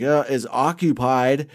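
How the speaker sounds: awkward mock warning. Hobo walks in on him.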